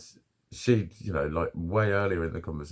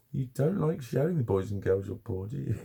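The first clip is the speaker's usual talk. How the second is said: higher, teasing coo to a pet; pet talk; 5 semitones higher than usual. Real, not acted. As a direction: tease the pet fondly.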